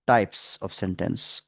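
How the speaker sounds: whispered aside; soft whispered topic name. Real, not acted. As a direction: whisper the words to yourself.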